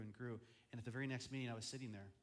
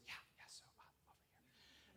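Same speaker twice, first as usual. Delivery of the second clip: hushed, barely audible whispering; secretive whisper; 17 dB quieter than usual. Acted. Group suddenly turning secretive around the pastor, whispering. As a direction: drop to a furtive whisper, trailing to almost nothing. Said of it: "suddenly the conversation goes".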